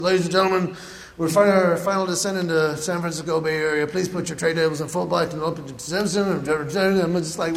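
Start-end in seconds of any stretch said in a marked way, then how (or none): 0.0-6.3 mumbled pilot intercom; intercom announcement. Retold or imitated. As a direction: garble it like a crackly intercom. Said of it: "they came on the intercom".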